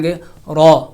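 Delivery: رو said thick and full with the tongue tip at the palate; heavy ro. Shown as a demonstration. Teacher demonstrating a heavy رو. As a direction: give رو a heavy, rolled sound. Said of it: "اس کو موٹا کر کے پڑھا جائے گا".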